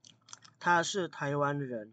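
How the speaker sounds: very slow, word by word Mandarin; very slow model sentence. Shown as a demonstration. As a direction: spell it out slowly for the class. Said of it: "Contoh kalimat misalnya". (sangat pelan kata demi kata)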